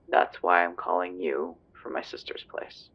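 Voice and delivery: hushed whisper, wary of being overheard; a low, nervous whisper into the phone. Acted. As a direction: drop to a secretive whisper so nobody nearby hears. Hiding from corrupt colleagues, on phone.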